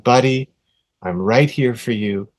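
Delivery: put-on soft, slow reassurance to a hurt child; calm him down gently, barely above a murmur; tender hush for a crying boy; soothing. Soothing son after bad fall.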